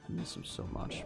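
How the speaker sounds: whispered, breathy and unvoiced; under my breath. Streamer whispers to the scam caller under his breath. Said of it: "under my breath".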